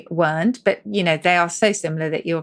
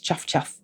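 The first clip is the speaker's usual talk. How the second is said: train chuff; 2 semitones lower, 6 dB quieter than usual. Shown as a demonstration. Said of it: "That's the puffing sound".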